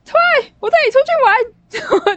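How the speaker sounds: very high, loud, drawn-out calling shout. Retelling standing at the door calling him out, retelling a shout. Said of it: "我就在门口就大喊".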